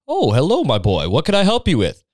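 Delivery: put-on high, swooping old-headmaster voice; sweetly lilting, with big pitch swings; Dumbledore. Headmaster greets a student in his office, hammed-up high lilt. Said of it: "He's like".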